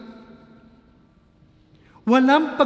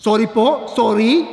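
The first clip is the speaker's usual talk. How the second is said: meek apology; 3 semitones higher, 6 dB louder than usual. Retold or imitated. Guard apologising in retold scene.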